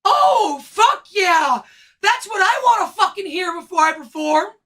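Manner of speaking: sarcastic. Real, not acted. Sarcastic outburst about the manager.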